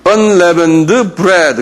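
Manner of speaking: "unleavened bread" sounded out slowly; slow, syllable-by-syllable "unleavened bread"; pronunciation demo. Shown as a demonstration. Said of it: "이건 좀 발음이 힘들어요".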